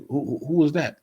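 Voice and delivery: put-on a confused old man demanding answers; mock bewildered questioning; imitating flustered Isaac. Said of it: "he was like, like".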